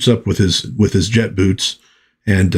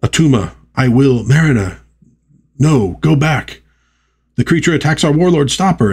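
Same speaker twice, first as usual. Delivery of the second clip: dramatic comic reading; 6 semitones higher than usual. Acted. Dramatic battle panel read aloud.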